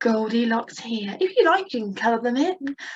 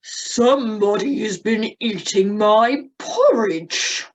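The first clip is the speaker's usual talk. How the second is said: lightly voiced papa bear; Daddy Bear voice; 3 dB louder, slower than usual. Shown as a demonstration. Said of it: "my turn".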